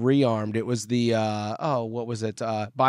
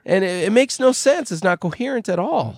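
raised-pitch voice of a baffled listener; puzzled listener; 6 semitones higher than usual. Retold or imitated. Quoting a listener's puzzled letter to the hosts, high and baffled. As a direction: play it high and bewildered, reading the letter. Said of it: "write in and go".

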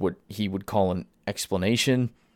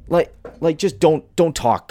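exasperated rant; 6 semitones higher, 5 dB louder than usual. Real, not acted. Ranting at studio head.

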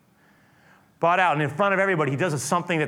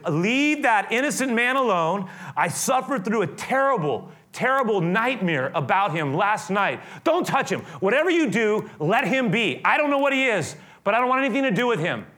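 higher, emphatic plea; a wife's insistent warning, acted out; urgent warning; 5 semitones higher than usual. Voices wife's urgent warning to Pilate.

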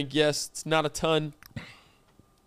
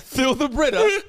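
laughing mock threat; 4 semitones higher, 4 dB louder than usual.

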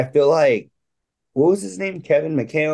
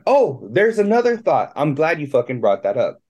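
raspy, worn-out voice; hoarse voice. Real, not acted. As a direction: talk through a tired, scratchy throat. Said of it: "I have no voice today".

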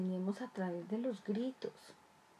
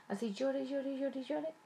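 each llore climbing higher, drawn out; building repetition; 4 semitones higher than usual. Acted. Parent dismissing a crying child, insistent rising repetition. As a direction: repeat llore, pitch rising each time as if shrugging it off.

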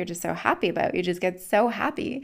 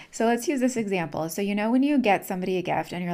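usual speaking voice

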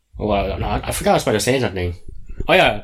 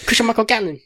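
high-pitched mimicked name; imitated daughter; 12 semitones higher than usual. Repeating the girl's line on request, high imitation. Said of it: "repeat that one more time".

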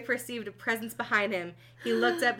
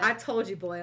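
through clenched teeth. Acted. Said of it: "said through clenched teeth".

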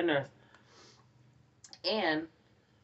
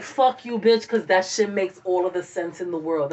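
half-laughing disbelief at a theory that makes sense; excited; 3 dB louder than usual. Retold or imitated. Friend cursing in amazement, mock excited.

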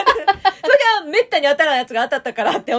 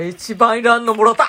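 laughing complaint; 8 dB louder than usual. Retold or imitated. Complains about the prize.

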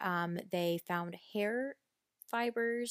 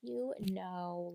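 slow, dismissive mock sympathy; belittling imitation; 4 dB quieter, slower than usual. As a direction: draw it out as if humouring them. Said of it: "Casey's just kinda using that".

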